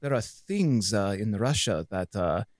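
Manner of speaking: imitating a Russian woman's accent. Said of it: "You can do the accent".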